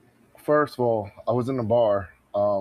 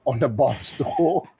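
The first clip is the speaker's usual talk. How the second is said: amused, laughter breaking into the words; laughing while telling. Real, not acted. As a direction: tell it through bursts of laughter. Laughing as he tells a wild celebration.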